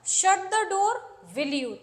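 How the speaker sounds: slow, spelled-out request; turned into a request. Shown as a demonstration. Teacher showing the command softened into a request. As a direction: soften the order with a tag. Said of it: "तो ये sentence request में बदल जाता है".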